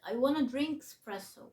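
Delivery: slow "espresso" with the first e swallowed, drink-spresso; linked pronunciation. Shown as a demonstration. Teacher showing it in a sentence, "espresso" linked and unstressed at the start. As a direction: run "drink" into "espresso", stress on press. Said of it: "لو بنطقها على بعض هقول".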